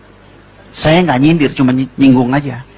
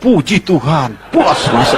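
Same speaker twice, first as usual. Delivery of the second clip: laughing. Acted. Laughing punchline.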